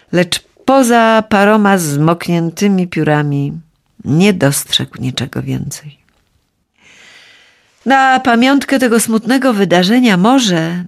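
ordinary delivery

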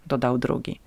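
plain reading voice

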